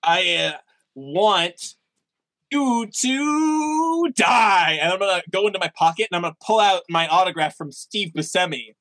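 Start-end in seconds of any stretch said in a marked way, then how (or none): 0.0-4.8 drawn-out, higher shouted threat; dramatic shout. Acted. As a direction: stretch "die" into a big hammed-up yell. Player's character shouts at villain.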